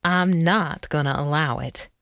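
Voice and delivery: mildly harsh refusal. A narrator's reading. Tired sheriff lays down the law to Abner, somewhat harshly. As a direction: put a touch of hardness into a firm refusal. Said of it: "more harshly".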